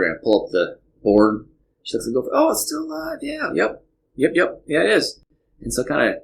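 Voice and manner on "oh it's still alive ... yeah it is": put-on high childlike voice, eager; little girl voice. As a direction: play the four-year-old daughter. Dad voices young daughter.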